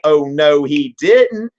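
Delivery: a mock outraged oh no he didn't; sassy. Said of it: "the Habsburgs are like".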